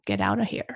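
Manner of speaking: "get out of here" with sounds dropped and joined; lazy linking. Shown as a demonstration. Practising American linking after the tip, joined "get out of here". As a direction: slide lazily through "get out of here". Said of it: "美国人的连音".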